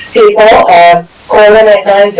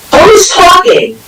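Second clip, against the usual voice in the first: exasperated; 10 semitones higher, slower than usual. Real, not acted. Chair interrupted by open microphones.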